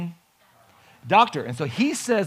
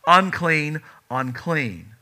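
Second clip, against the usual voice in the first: screaming unclean; 6 dB louder, much slower than usual. Acted.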